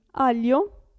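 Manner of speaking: Aglio said aljo, no g; silent g. Shown as a demonstration. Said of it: "la G non si sente". (Aglio si pronuncia aljo, senza g)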